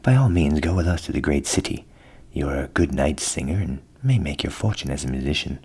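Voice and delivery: jolly donkey offering a plan; hearty donkey. A narrator's reading. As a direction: invite the cat along warmly. Ass voiced in whispered tale.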